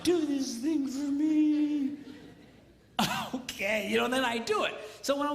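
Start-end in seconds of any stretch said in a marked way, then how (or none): 0.0-2.0 lightly voiced wife, coaxing, slow at the end; butter him up like a doting wife; mild mock wife sweet-talk. Wife pats his cheeks.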